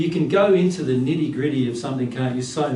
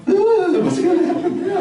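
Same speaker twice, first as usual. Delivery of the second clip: much higher, louder laughing panic; panicked parent; 5 dB louder than usual. Retold or imitated. Parent watching the child on the stairs, a high, laughing mock panic. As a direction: squeal with mock alarm. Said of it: "It's like".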